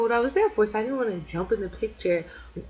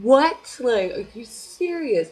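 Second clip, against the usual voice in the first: high what, then slow serious; stunned disbelief; 4 semitones higher, 7 dB louder, much slower than usual. Retold or imitated. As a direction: gasp it out in disbelief. Retelling stunned reaction.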